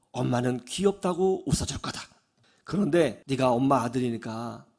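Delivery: low, soft, measured voice; calm motherly explanation. Retold or imitated. Mother follows upset son to his room, calm explanation. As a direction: settle down and explain gently.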